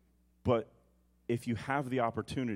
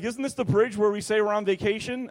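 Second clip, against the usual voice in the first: put-on higher, innocent kid's question; imitating daughter; 8 semitones higher, 4 dB louder than usual. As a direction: play the daughter pointing it out sweetly. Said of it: "Sophia's like".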